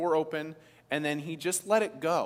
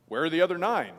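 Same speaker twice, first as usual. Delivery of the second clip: mildly booming question, a bit louder; 5 dB louder, faster than usual. Acted. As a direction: boom it out as an imagined Jesus. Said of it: "let's say it's booming".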